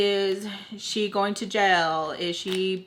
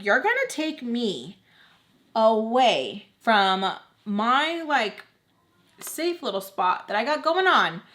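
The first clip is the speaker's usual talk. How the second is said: retold mad protest; 2 semitones higher than usual. Daughter pulled from her safe spot, mad. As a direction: act out protesting to mom, word by word. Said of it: "I'm mad 'cause I'm like".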